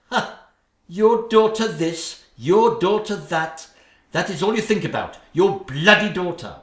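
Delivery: wife ranting at husband about his daughter, heated; angry rant. Acted. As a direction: throw his words back at him.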